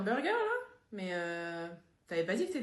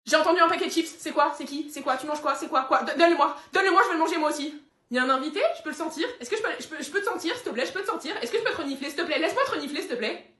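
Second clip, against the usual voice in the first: eager begging dog; 4 semitones higher, 4 dB louder than usual. Acted.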